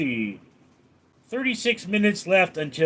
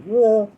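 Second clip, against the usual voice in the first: higher, louder burst imitating a dog; imitated dog noise; 6 semitones higher, 5 dB louder than usual. Man retelling his dog's attempt to bark, imitated woof. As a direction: mimic a dog failing to bark. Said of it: "he would do something like".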